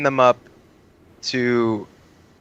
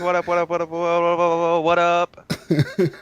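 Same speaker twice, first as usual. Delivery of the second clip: excited greeting; 4 semitones higher than usual. Real, not acted. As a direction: pump up the crowd with a big hello. Guest's hyped greeting.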